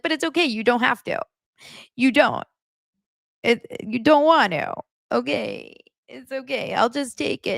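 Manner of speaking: put-on high, pleading girlfriend whine; whiny Annie. Mocking Annie begging Nick to say he loves her, high whine. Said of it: "And she's like".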